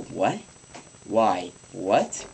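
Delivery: mock-clueless questions. Mock-clueless answer to the teacher. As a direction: play dumb. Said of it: "act more and more clueless".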